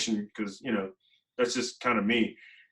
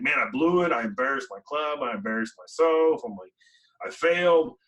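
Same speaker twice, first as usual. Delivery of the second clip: retold frustration; 3 semitones higher than usual. After losing the contest, scolding himself with mild frustration. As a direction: grumble at yourself after blowing it. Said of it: "and I was mad".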